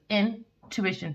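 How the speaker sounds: "intuition" said slowly in two parts; slow split word. Shown as a demonstration. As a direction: draw out "intuition", slowing to separate its parts. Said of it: "two syllables".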